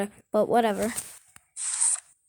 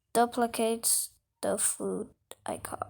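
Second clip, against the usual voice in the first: whisper; 2 semitones lower, 9 dB quieter than usual. Real, not acted. Whispered aside.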